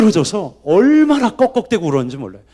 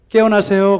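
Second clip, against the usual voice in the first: nurse's wake-up call; 3 semitones higher, 4 dB louder than usual. Retold or imitated. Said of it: "그렇게 이야기를 하더라고요".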